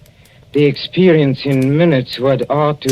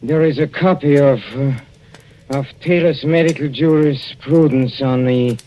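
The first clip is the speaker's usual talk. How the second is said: louder, halting plea for help; urgent pleading; 4 semitones higher, 4 dB louder than usual. Acted. Poisoned husband begging his wife for the book, urgent halting plea. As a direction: gasp out the request, desperate.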